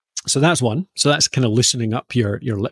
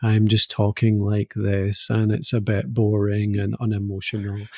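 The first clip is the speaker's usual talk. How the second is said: monotone voice; 2 semitones lower than usual. Shown as a demonstration. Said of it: "think of a monotone voice as if".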